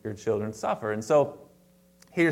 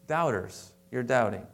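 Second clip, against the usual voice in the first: gentle chiding. Retold or imitated. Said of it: "He was gentle like a lamb".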